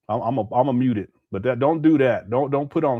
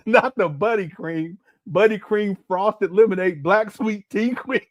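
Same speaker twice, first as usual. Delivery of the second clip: giggling as he reads the flavors; half-laughing list of flavors; laughing through the names; 4 semitones higher than usual. Retold or imitated. Streamer laughing at a silly flavor list, giggling.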